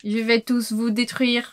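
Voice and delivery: slow, low, soft robot menace. Pretend. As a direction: threaten like a villain robot. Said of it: "C'est un lama robot?".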